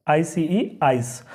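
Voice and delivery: आइस with the सी sounding as स; teacher slowly sounding out आइस; spelling then saying ice. Shown as a demonstration. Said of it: "स की तरह हो रहा है".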